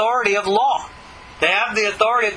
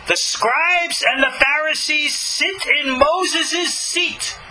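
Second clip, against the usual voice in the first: higher, slow public announcement over a loudspeaker; loudspeaker proclamation; 5 semitones higher, slower than usual. Pretend. Yeshu proclaiming to the multitudes on a loudspeaker, slow and higher. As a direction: proclaim it to the whole crowd as if amplified. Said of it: "he'd be on the loudspeaker".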